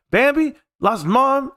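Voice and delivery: high, squeaky shocked question; shocked disbelief. Retold or imitated. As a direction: gasp it out like you can't believe it. Shocked at dad's Bambi story.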